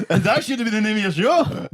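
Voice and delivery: high laughing delight. Real, not acted. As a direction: say it through laughter. Delighted at own joke, laughing.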